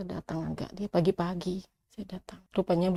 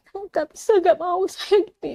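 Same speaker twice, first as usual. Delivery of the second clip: higher, forceful retold refusal; emphatic refusal; 10 semitones higher, 5 dB louder than usual. Wife refusing husband's terms, higher and forceful. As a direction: push back hard, voice pitched up.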